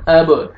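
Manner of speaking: अब with the B bounced into a tiny second sound; echoing qalqala. Shown as a demonstration. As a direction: release the B of अब with a short echo. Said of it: "double sound आएगा". (अब में बा का double sound)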